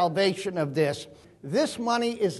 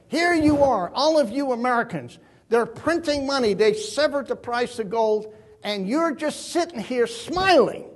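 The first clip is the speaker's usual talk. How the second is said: put-on Austrian accent; 4 semitones higher than usual. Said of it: "in that Austrian accent".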